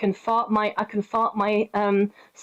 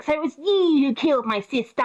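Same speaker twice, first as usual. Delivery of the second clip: mock witch accusation; 4 semitones higher than usual. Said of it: "the witch arrives and she's like".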